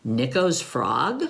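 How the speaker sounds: low wondering dog voice; older dog voice. Acted. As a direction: ask it like a gruff old dog. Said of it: "And Nico says".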